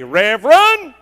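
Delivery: "Reverend" called out loud and sharp, falling at the end; crying out Reverend. Retold or imitated. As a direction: shout "Reverend" like a wife catching him at the door. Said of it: "if she doesn't cry out and say".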